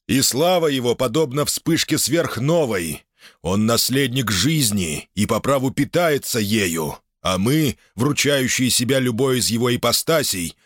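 high, fervent cultist voice; zealous fanatic. Acted. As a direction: preach it with burning zeal. Fanatic preaching his god.

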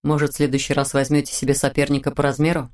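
a hint of teasing; light taunt to the lord; mocking. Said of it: "насмешливо добавил". (насмешливо)

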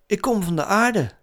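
hoog stemmetje van een maanautootje; Lunar. A narrator's reading. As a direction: speel het autootje met hogere stem. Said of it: "zei het maanautootje". (hoog voorgelezen personagestem)

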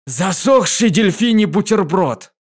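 loud slow cry of nonsense; mother's loud distressed shout. A narrator's reading. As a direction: yell it out, drawn out. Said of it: "закричала мама".

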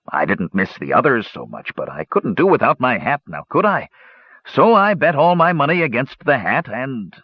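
lightly voiced, self-excusing dwarf; a hint of a sheepish dwarf; sheepish dwarf gambler. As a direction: plead your case, rising on the excuses.

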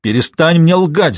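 husband yelling at his wife to stop lying, furious; shouting. A narrator's reading. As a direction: hurl it at her, slowly and hard. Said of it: "закричал он".

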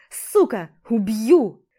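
loud enraged death threat; furious yell. Acted. Rival yells at him while being dragged off, furious yell. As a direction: scream it while being held back. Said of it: "орал он мне".

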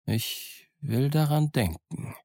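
"daran denken" drawn out slowly; ambiguous slow emphasis on "daran denken"; peculiar intonation. Acted. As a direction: stretch "Ich will daran denken" slowly, pitch lifted then falling. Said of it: "mit einer so sonderbaren Betonung".

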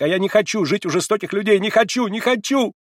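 high, loud shriek of refusal; shouting refusal. A narrator's reading. Sick girl refusing the old man, shrieking refusal.

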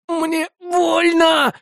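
high, very slow agonized shout; pain scream. Acted. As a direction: howl out the pain. Trapped soldier screams in pain.

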